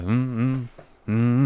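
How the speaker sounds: mock wordless grunts, closed mouth; lazy, wordless mm-mm grunts; grunting. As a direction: grunt it out instead of explaining. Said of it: "You start grunting".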